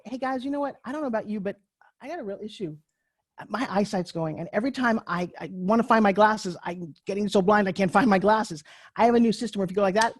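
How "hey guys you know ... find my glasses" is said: casual natural pitch. Shown as a demonstration. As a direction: slip the pitch in like everyday talk. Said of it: "But if you were to say".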